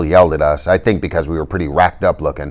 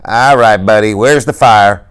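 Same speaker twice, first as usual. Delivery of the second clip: disgusted cop; 4 semitones higher, 5 dB louder, slower than usual. A narrator's reading. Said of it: "The policeman looked disgusted".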